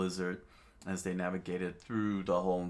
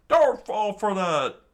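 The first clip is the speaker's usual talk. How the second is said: high, loud warning yell; screaming; 14 semitones higher, 13 dB louder, slower than usual. A narrator's reading. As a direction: yell it out to stop them. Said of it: "the patron screamed out".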